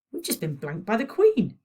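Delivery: lightly indignant, put out at being ignored. A narrator's reading. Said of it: "said Elliot indignantly".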